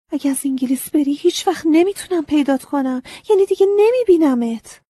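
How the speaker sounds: rising to a high, loud cry; distressed plea. Acted. Girl fears losing scarecrow.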